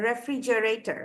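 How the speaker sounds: রেফ্রিজারেটর with a clear "j" sound; correct pronunciation. Shown as a demonstration. Teacher giving an example word, রেফ্রিজারেটর said with "j" in the middle. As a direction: say রেফ্রিজারেটর as "re-fri-je-rei-tar". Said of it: "যেভাবে pronounce করা প্রয়োজন".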